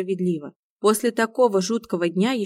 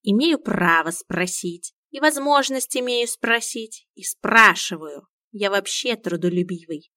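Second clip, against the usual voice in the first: dignified; slower than usual. Acted. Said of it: "с достоинством объяснил Миун".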